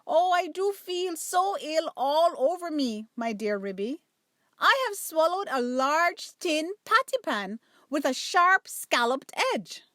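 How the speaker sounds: milk the imagined agony; plaintive whine. Acted. Duchess moaning she is ill.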